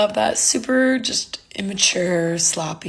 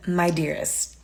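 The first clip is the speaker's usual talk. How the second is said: condescending; slower than usual. Real, not acted. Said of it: "super condescending".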